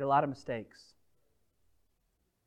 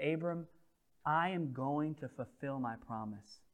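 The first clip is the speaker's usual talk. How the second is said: gentle promise; 7 dB quieter than usual. Acted. God's tender promise.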